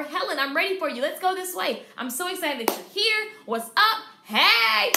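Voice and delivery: loud, excited welcome rising to a high hey; cheerful greeting. Shown as a demonstration. Stylist welcoming a client, loud and excited. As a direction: sound genuinely glad to see her.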